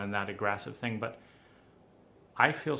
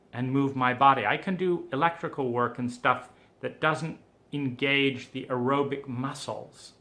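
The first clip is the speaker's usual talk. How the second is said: frustrated outburst; 3 dB louder than usual. Retold or imitated. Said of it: "I was like".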